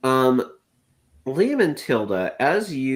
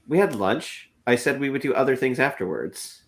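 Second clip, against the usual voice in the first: put-on higher, mildly snarky teen retort; lightly voiced teen attitude, pitched up; teenage snarkiness; 4 semitones higher than usual. Daisy answers back about lunch, with mild teenage snark. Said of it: "like, teenage snarkiness and says".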